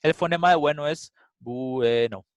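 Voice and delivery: bueno split slowly into its sounds, bue-no; slow phoneme-by-phoneme demo of bueno; phonemes spelled out. Shown as a demonstration. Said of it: "entonces ustedes dicen".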